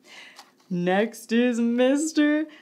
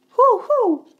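excited hooting; 5 semitones higher, 5 dB louder than usual. Acted. Owl-like hooting question.

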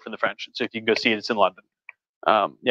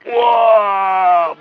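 excited whoa; 7 semitones higher, 6 dB louder than usual. Real, not acted. Helping child over the couch.

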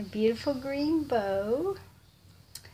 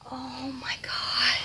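stunned whisper; 2 semitones higher, slower than usual. Real, not acted. Stunned reveal.

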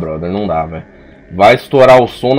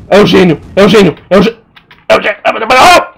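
terrified; 6 semitones higher, 5 dB louder than usual. Real, not acted. Spots the genie chasing him.

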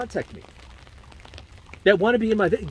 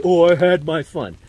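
mock chick phrase; 8 dB louder than usual. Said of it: "that's a chick phrase".

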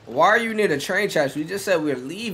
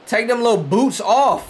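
urgent yelling; 5 semitones higher, slower than usual. Real, not acted. Yelling urgently at the game character.

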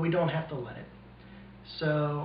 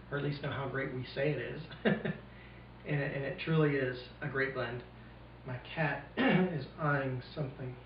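speech muffled by pipe; talking around pipe stem; 4 dB quieter than usual. Real, not acted. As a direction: pipe clenched in teeth. Seen 1: Hand holds pipe stem at mouth through all labelled frames; dim light.

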